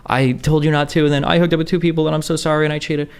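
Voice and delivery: high-pitched, hammed-up teary apology; mock crying. The speaker mimicking Melina crying on the phone, mock tearful and high. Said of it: "She's, like, crying".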